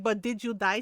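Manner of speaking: lightly voiced dismissive Filipino mother; a hint of mock scolding; Filipino mom. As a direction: imitate mom brushing off the complaint. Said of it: "She's just Filipino".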